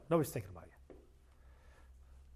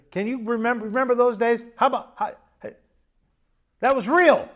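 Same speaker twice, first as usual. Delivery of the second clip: retold eager urging; 5 semitones higher, 7 dB louder than usual. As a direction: pitch climbing higher and louder to a peak. Pastor urging couple to recall love.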